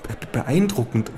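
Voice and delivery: high falsetto of a small fat lobbyist. Acted. Lobbyist lecturing the kangaroo at the buffet, high falsetto. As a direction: squeak it out like a nervous little fat man. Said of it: "ruft der Mann".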